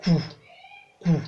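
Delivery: cou on a short low tone. Shown as a demonstration. Teacher giving an example word, cou on low tone. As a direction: drop cou to the low tone, twice.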